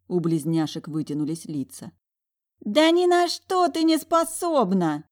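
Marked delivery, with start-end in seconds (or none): 2.6-5.0 very high, slow spiteful shriek; shrieking retort. A narrator's reading. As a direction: lash out in fury. (визгливо, зло и высоко)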